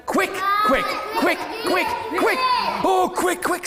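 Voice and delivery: high, squeaky duckling chirps; high-pitched duckling cries; excited little duck. Acted. Fifth duck says quick instead.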